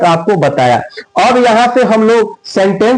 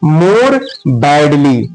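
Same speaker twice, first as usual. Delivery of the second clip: dictating slowly; 6 semitones lower, much slower than usual. Shown as a demonstration. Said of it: "यहाँ पे हम लगा देंगे क्या?".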